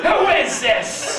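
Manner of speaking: high, very drawn-out demand; suspicious mom. Retold or imitated. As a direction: imitate a confused mother questioning a caller.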